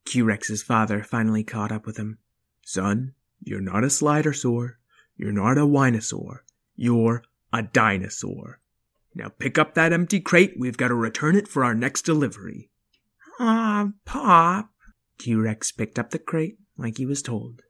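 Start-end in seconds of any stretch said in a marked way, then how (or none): 2.6-12.7 a hint of a stern father; lightly voiced dad dinosaur; gruff dad voice. 13.4-14.7 put-on high childish whine; little boy complaining; whiny kid voice. Child dinosaur voice.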